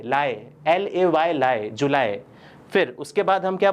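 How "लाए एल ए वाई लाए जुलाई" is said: slow syllable drill on "लाए", spelt out, then "जुलाई" as "ju-LAI"; English pronunciation. Shown as a demonstration. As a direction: break out "लाए" as "lie", falling low to "जुलाई". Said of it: "जुलाई को क्या बुलाते हैं".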